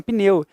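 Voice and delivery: "pneu" in a single impulse of voice; "pneu" with p running straight into n; one-impulse pneu. Shown as a demonstration. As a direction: say "pneu" as one syllable, no vowel between p and n. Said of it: "Você fala assim".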